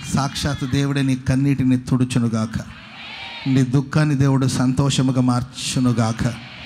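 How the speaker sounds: low, solemn declaration; preached blessing. Real, not acted. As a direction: pronounce it over the listeners, drawing out the ending. Pronounces a blessing over congregation. (ఆశీర్వాద ప్రకటన, తగ్గు స్వరంలో)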